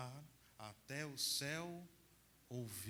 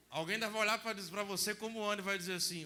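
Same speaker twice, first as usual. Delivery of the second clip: raised, higher voice, building; loud preaching; 5 semitones higher, 9 dB louder than usual. Real, not acted. Priest preaching loudly about Ana's complaint. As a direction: belt it out to the crowd.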